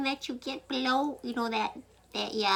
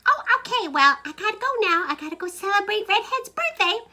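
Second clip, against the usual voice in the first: husband on phone; 9 semitones higher, 7 dB louder than usual. Acted. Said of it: "she heard her husband go".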